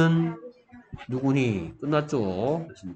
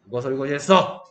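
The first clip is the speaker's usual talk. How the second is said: sudden raised-voice question, mock accusing; mock telling-off burst; startling sudden demand; faster than usual. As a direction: demand it abruptly to make the class jump. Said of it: "왜 이렇게 놀래?".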